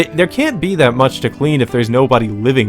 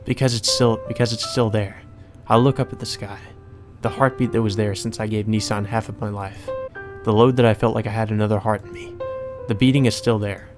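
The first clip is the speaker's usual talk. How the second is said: composed first-person narration; story narration; 2 semitones lower, 5 dB quieter than usual. Acted. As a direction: read it out evenly and restrained. Reads game narration.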